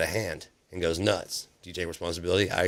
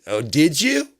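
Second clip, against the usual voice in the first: high, louder coo; mock doting adult; 9 semitones higher, 8 dB louder, slower than usual. Adult cooing to the childlike president, high and doting. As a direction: coo like a parent to a toddler.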